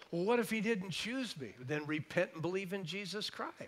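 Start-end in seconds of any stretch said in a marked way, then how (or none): 0.1-1.5 worried listener. Retold or imitated. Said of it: "You go".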